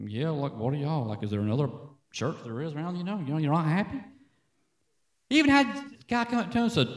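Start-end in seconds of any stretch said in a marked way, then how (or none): 0.1-4.0 imitated puzzled mumble, softer; lightly acted, halting and unsure; hesitant reply. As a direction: stumble softly through a baffled answer. Acting the other man's puzzled reply.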